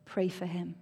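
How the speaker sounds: soft and low, barely above a murmur; very quiet voice. Retold or imitated. God answering the speaker's prayer in a very quiet voice. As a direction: gently hush the words like a still small voice. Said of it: "spoke to me in a very quiet voice".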